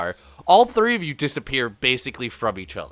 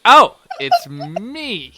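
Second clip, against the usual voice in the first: laughing realization; 13 semitones higher, 12 dB louder, much slower than usual. Retold or imitated. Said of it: "And I was like".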